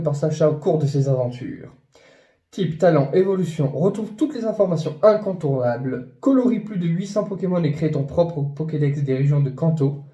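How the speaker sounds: ton de pub lu, un peu appuyé; lecture de quatrième de couverture. Acted. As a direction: lis le texte comme une réclame. Reads the back-cover blurb. (lecture publicitaire du résumé)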